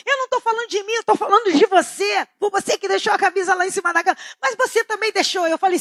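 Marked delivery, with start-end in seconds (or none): 0.1-4.2 mock angry shout. Acted couple quarrel, shouting. 4.4-5.5 higher-pitched stubborn comeback; mock retort, higher. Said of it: "Ele falou".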